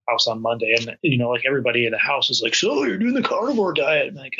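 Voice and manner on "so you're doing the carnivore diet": high-pitched, quick incredulous query; put-on amazement, voice lifted high; surprised mock question. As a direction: imitate a curious houseful of relatives, pitched way up. Retold reaction of hosting household.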